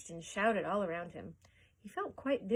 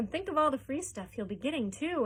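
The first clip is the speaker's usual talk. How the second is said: envious; 6 semitones higher, 4 dB louder than usual. A narrator's reading. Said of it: "another boy said enviously".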